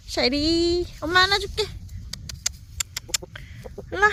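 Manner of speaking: high sweet dog-talk voice; squeaky praising a dog. Real, not acted. Owner coaxing her dog.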